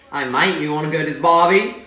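attempted Aussie accent, rising loud at the end; Australian accent. Performs an Australian accent on a friend's request, Australian accent. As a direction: put on a hammy Australian greeting. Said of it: "give me your best Australian accent".

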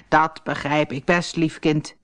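put-on calm the frightened girl; old woman reassuring. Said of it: "zei vrouw Holle".

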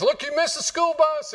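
high, exasperated mom voice; scolding a late kid from downstairs; mom yelling. Retold or imitated. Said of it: "she goes".

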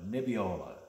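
Nebbiolo as neb-ee-OH-lo, falling tune; lightly Italian Nebbiolo; Italian pronunciation. Shown as a demonstration. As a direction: roll Nebbiolo off the tongue, stressed on the O. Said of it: "put your Italian accent on".

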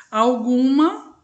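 teacher splitting a word slowly into syllables; slow syllable split. Shown as a demonstration. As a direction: spell the word out in slow beats for the class. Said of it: "dividida em três sílabas".

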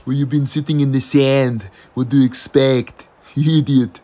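loud exasperated telling-off; loud scolding. Acted. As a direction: bark it at him. Scolding the complaining friend.

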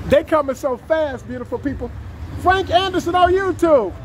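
short of breath after rushing; talking while winded. Real, not acted. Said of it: "I'm out of breath".

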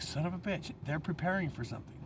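hushed son of a bitch moment; quiet realization. Retold or imitated. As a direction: drop the voice as it clicks. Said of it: "I was like".

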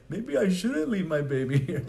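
a mother doubting herself at the door; mock worried mom. Imitating a mom hesitating to leave her crying baby. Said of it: "the mom's like".

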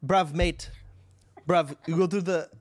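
a bad, hammed-up British accent; mock British accent. Streamer mocking British slang, bad British accent. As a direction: bluster through a fake London accent. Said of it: "You don't even have a British accent".

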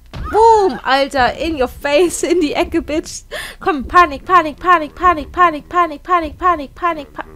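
loud excited shouting at the fight; hyped yelling. Real, not acted. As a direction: hype up the battle, yelling. Frantic in-game fight.

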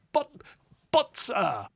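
high, stammered interjection; sputtering gentleman; flustered protest. A narrator's reading.

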